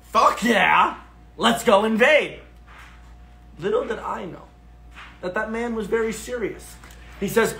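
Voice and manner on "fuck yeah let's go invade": gleeful, higher-pitched yes; loving it. Retold or imitated. Tourist agreeing to the stranger's invasion, excited. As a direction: jump in with mock eagerness. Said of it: "I'm loving this. I go".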